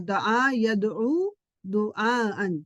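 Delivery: slow teacher's recital of دعا یدعو دعاءً; slow drill recitation. Shown as a demonstration. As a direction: say دعا یدعو دعاءً slowly, each word drawn out. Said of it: "یہ آپ کو پتا ہونا چاہیے".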